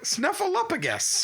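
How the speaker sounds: Snuffleupagus high and slow, a clear P in "-upagus"; pronounced with P. Shown as a demonstration. Host repeating it for a friend, Snuffleupagus slow with a P. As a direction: repeat Snuffleupagus slowly, pitched high, with P before "agus". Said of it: "there's a P".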